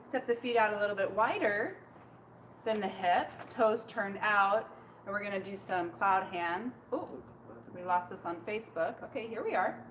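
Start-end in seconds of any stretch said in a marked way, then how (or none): 0.0-6.8 serene tai chi cues. Acted. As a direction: ease them gently into the stance. Leads tai chi practice.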